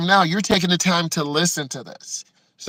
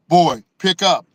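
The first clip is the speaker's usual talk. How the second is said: dad urging; 5 dB louder than usual. Retold or imitated. Dad urging, louder, far.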